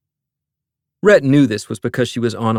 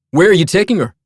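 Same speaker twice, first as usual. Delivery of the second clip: demanding; 8 semitones higher, 6 dB louder, faster than usual. A narrator's reading. Confronting security man.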